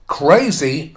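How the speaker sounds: "Crazy" set apart with stress, falling at the end; quoted emphasis. Retold or imitated. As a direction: lean on "Crazy" as a word in inverted commas. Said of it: "he cannot emphasize the word enough".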